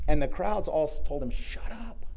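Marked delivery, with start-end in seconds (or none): 1.3-2.1 mock yell. Crowd silences the blind beggar, mock yelling. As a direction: imitate a crowd's high rebuke. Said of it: "They yelled at him".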